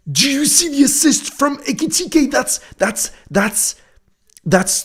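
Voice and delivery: stammering, squeaky excitement; be too thrilled to finish the sentence; high-pitched disbelief. Real, not acted. Streamer raving to viewers about the assist, squealing in disbelief.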